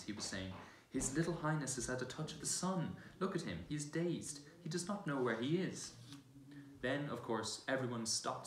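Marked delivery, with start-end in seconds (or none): 0.9-5.9 lightly raised, fussing courtier voice; a faun fussing over the prince to the royals, lightly higher; faun's voice. Acted. Faun voiced in read story.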